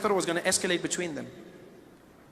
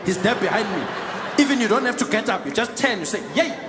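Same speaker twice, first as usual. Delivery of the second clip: slightly higher, bossy passenger voice; lightly voiced man throwing his weight around; cocky seat-stealer; 4 semitones higher, 3 dB louder than usual. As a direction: play a self-assured seat squatter. Acts out the man in the chair.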